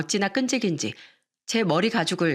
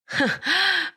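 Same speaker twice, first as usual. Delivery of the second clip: short, high scoffing laugh; brief high-pitched derisive laugh; scornful laugh; 10 semitones higher than usual. Acted. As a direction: laugh in mocking disbelief. Mother-in-law scoffs at the claim.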